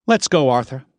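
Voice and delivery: non-committal. A narrator's reading. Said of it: "Her tone was non-committal".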